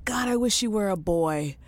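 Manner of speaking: whispered confession; whispering. Retold or imitated. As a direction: whisper it like a guilty secret. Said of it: "I'm like".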